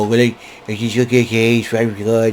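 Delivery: a light, lemon-sucking Trump voice; mock Trump, pursed like sucking lemons; Donald Trump impression. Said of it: "doing my Donald Trump impression".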